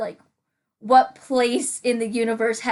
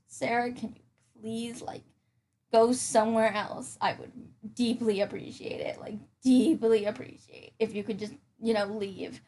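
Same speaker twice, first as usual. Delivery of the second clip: hushed mock request; 6 dB quieter than usual. Asks imaginary Sarah to leave.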